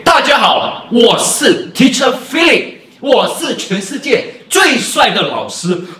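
loud, high, slow ringing greeting. Shown as a demonstration. Teacher demonstrating a loud ringing voice to students, loud and high. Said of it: "这个叫做suara nyaring".

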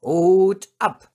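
loud, high order to a dog; dog trainer's loud command; shouted command. A narrator's reading. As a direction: call out the trick sharply. Master gives dog a command.

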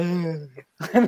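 ruido de bobo embelesado; goofy starstruck noise, mocking oneself; embobado. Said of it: "como idiota". (sonido de idiota embobado)

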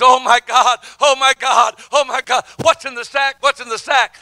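mildly frantic imitation of crying; mock distraught crying. Shaking wife over the paper bag, mock distraught. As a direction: repeat it urgently, lightly imitating a distraught woman. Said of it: "and she's crying".

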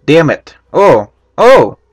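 a light put-on foreign accent in broken English; mock foreign accent. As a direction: keep up a half-hearted foreign accent. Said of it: "Fuck the accent, I can't do it for that long".

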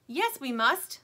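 Stingray snapping at the towel. A narrator's reading. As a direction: snap back impatiently. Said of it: "snaps Stingray".

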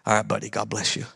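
low, soft, barely-there prayer; weak offhand prayer to a boy; feeble prayer. Retold or imitated. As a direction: mumble it like you have no faith. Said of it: "The prayer literally said".

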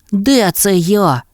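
slow, high bewildered mole; puzzled mole. A narrator's reading. Mole wakes outside, slow and puzzled. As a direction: mole wondering where he is. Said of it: "сказав кротик".

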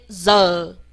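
z as a buzzing "zuh", tongue uncurled; long falling z with no retroflex; 不卷舌示范. Shown as a demonstration. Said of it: "记得z呢不卷舌". (不卷舌，拉长念z)

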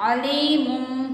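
"अलीमुम" with the ee held long; long ya vowel. Shown as a demonstration. Teacher showing ya madda to class three, long ee in "अलीमुम". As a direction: recite "अलीमुम", stretching ली for one alif. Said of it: "एक अलिफ के बराबर लंबा".

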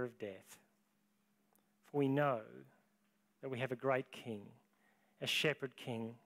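soft, reverent closing prayer. Real, not acted. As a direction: pray gently for the congregation.

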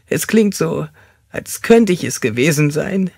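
high, agitated character voice; unhinged confession pitched well up; tormented fanatic suspect. Acted.

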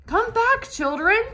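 high, loud pleading call; crying out. A narrator's reading. Wilbur cries out to the departing babies, high and loud. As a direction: call them back in panic. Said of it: "he cried".

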